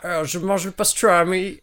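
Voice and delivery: Marseille attempt that sounds English; botched Marseille accent. Contestant attempting Marseille talk, accent coming out English. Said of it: "Arrêtez de faire l'accent anglais".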